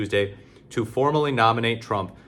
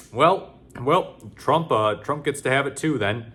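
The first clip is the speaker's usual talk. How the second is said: higher, louder hammed-up right-winger; mock maga voice; 5 semitones higher, 3 dB louder, slower than usual. Mocking how right-wingers will defend Trump, high put-on voice. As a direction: parody a smug MAGA fan. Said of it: "maga types and right-wingers will say".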